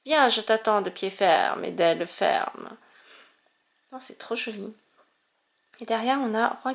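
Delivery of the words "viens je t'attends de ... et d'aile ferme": lightly voiced proud creature, a bit lower; a hint of a cocky challenger daring you on; proud Pokémon. Collector lightly voicing a proud Pokémon's challenge. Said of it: "très fier de lui".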